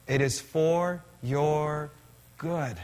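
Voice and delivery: "It is for your good" drawn out slowly, word by word; slow emphatic repeat. Shown as a demonstration. Pastor repeating Jesus' words slowly to the church, emphatic. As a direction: let each word of "good" land slowly.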